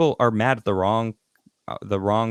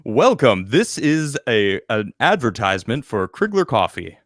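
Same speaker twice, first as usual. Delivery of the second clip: announcer voice. Shown as a demonstration. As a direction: welcome them like a commercial announcer. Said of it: "like, announcer voice".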